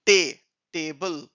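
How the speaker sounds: slow "टे", then "टेबल" drawn out; teacher blending "टे" into a slow "टेबल"; syllable by syllable. Shown as a demonstration. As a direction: sound out टेबल slowly in two parts. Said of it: "मिला के बिल sound होता है".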